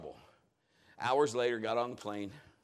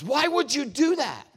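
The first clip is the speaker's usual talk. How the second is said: higher, louder disbelief; a touch of a baffled realtor; incredulous; 9 semitones higher, 6 dB louder than usual. Retold or imitated. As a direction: realtor shaking her head at the buyer. Realtor incredulous, shaking head.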